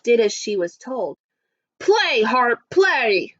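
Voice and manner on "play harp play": lightly voiced commanding giant; mild command. Giant ordering the harp to play, mild command. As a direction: order it as a storybook giant, slightly raised. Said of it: "commanded the giant".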